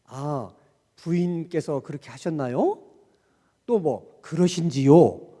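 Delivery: lightly voiced Joseon yangban politeness; a hint of a period-drama aristocrat; old-fashioned nobleman. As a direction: mimic a stiff, formal noble speaking to his wife. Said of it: "사극 같은 데를 보면은 ... 양반들이".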